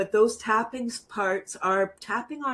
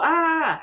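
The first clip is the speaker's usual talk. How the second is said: higher, drawn-out ah release; demo ah; 8 semitones higher than usual. Shown as a demonstration. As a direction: show the stress-release sound. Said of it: "So we're just gonna go".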